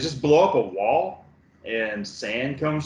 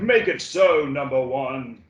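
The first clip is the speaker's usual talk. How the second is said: Patrick Stewart catchphrase. Retold or imitated. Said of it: "He's like".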